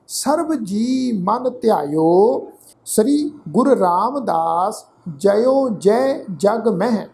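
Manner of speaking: slow, careful scripture reading; slow recitation. Shown as a demonstration. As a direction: recite each phrase slowly for students. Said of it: "ਇਸ ਤੋਂ ਅੱਗੇ ਪਾਠ ਹੈ ਜੀ".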